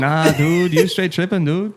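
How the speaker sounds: put-on casual Canadian accent, dude. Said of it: "You said it so Canadian".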